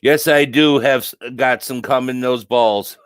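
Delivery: loud, laughing through the words. Real, not acted. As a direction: crack up at a dirty joke. Laughing at a crude chat joke.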